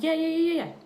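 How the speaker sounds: quick, high, loud string of yeahs; imitating a nervous boyfriend's eager yes. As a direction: pile the yeahs on, overeager. Bobby eagerly answers the cop.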